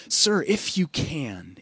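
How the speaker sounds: slow, aching plea from a desperate father; pained plea. Acted. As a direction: beg slowly, voice full of hurt. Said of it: "You can hear the pain in this father's voice".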